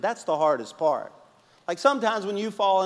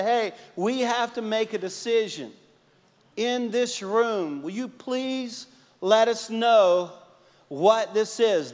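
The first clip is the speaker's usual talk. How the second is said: slow earnest asking; 6 semitones higher, slower than usual. Retold or imitated. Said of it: "they finally call you over and say".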